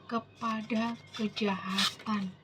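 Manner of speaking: slow, weighty verse reading with drawn-out words; solemn scripture reading. Acted. Preacher reading God's promise to the congregation, solemn scripture reading. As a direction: read the verse out deliberately.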